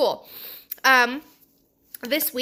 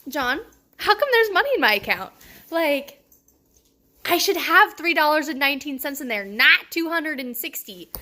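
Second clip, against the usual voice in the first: higher, puzzled questioning; baffled at the money; confused surprise; 3 semitones higher than usual. Retold or imitated. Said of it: "and I was like".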